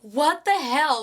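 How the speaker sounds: slowed right down, drawn-out "What the hell?"; outraged disbelief. Real, not acted. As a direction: stretch out "What the hell?" in shock. Own outraged reaction to the stabbing.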